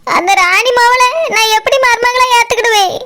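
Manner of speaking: tearful protest; crying. Acted. Mother refusing her new daughter-in-law, crying. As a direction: weep out the refusal. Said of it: "எதுக்கு இப்படி அழுதுட்டு இருக்கா".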